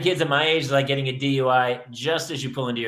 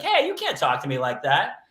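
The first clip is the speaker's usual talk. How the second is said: half-hearted scolding. Retold or imitated. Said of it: "said it kind of half-heartedly".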